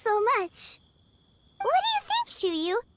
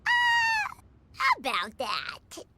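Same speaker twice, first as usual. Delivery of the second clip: startled, then trailing off; 12 semitones higher, much slower than usual. Acted. Caught-out companion stalling when asked about adepti.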